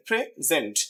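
প্রেজেন্ট broken into pre and zent; split syllables. Shown as a demonstration. Teacher pointing out two syllables, separated. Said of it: "দুটো syllable রয়েছে".

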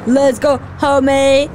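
low jokey imitation; funny Trevor voice. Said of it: "in a funny way".

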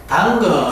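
danger said as Korean "dang-geo"; 당거, the wrong Korean reading of danger; mock Korean mispronunciation. Shown as a demonstration. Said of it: "하면 안 됩니다".

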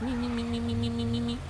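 high, stuttering repeated "me" like a skipping machine; playful machine-stutter impression; imitated glitch stutter. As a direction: mimic a glitching timer with rapid high "me" syllables. Imitating the game's glitchy timer.

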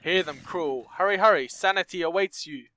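gleeful taunting madman voice; a lightly voiced cackling villain. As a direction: tease them like a mad jailer. Game villain taunting the player.

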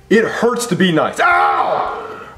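hammed-up yelp of heartbreak; mock pain cry. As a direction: yelp like your heart just broke. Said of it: "that was my heart breaking".

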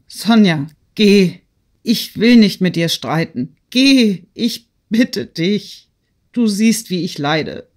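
vehement plea, high and loud outbursts; desperate, trembling. A narrator's reading. Woman sending her friend away, desperate and trembling. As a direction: burst out, then drag the begging words. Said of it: "rief Natalie heftig mit zitternder, verzweifelter Stimme".

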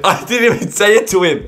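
high voice bubbling with laughter; laughing protest. Real, not acted. YouTuber seeing the wrong streamer take offence, laughing. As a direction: protest while cracking up. Cracks up at mistaken reaction.

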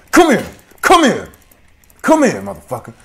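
yelling chase. Acted. Player chasing a villager down, screaming. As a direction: bellow after the fleeing target.

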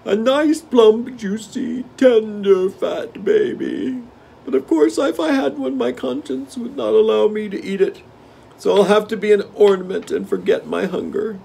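high, loud, greedy tiger; hungry tiger smacking his lips. Acted. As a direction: list the treats with relish. Hungry tiger dreaming of food.

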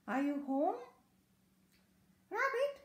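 loud, rising call. A narrator's reading. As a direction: call through a closed door. Caller outside shouting for rabbit.

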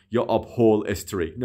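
upholstery drawn out, with an extra 'e' before -stry; wrong pronunciation. Shown as a demonstration. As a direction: say upholstery as up-hol-es-tree. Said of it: "به هیچ وجه نمیگیم".

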